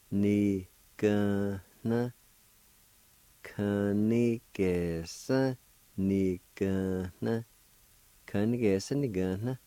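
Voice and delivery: slow careful Cherokee word; Cherokee syllables. Shown as a demonstration. Teacher modelling the two-part Cherokee word. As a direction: sound out "kunigesa" slowly. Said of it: "like this".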